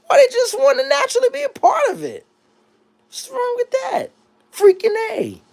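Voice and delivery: high-pitched put-on white-guy voice. Answering a viewer in his white voice, high-pitched and put on. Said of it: "let me get back in my white voice".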